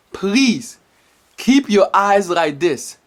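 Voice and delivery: ordinary talk, nothing marked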